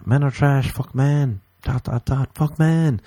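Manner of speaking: high mocking chant of angry posts; mocking women online. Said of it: "they'll be posting all over everywhere".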